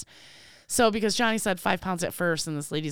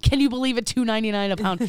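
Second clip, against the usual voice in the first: raised, louder imitation of amazement; amazed bargain hunter; 5 semitones higher, 4 dB louder, faster than usual. Wife imitates husband marvelling at salami price, excited. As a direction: marvel at the deal as someone retold.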